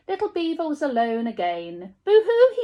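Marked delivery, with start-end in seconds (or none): 2.0-2.6 high, loud boo-hoo sob; mock crying. A narrator's reading. Little beaver sobbing across the pond, high loud wail. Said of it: "he said".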